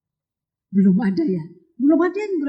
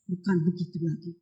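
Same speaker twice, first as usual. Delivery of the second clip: weeping; 10 semitones lower, 10 dB quieter than usual. Acted. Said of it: "dia pakai nangis".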